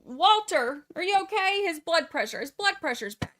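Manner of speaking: hammed-up worried wife; mock fretting. Wife fussing over Walter's blood pressure, mock fretting. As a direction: imitate an overwrought wife fussing. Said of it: "Donna is whining and complaining so much".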